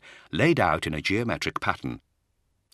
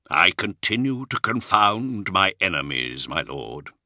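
faint smile; 2 semitones higher, slower than usual. Acted. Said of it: "with a faint smile".

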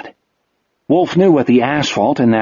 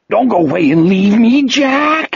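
a sobbing plea, voice way up; weeping plea; 9 semitones higher than usual. Acted. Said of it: "he wept".

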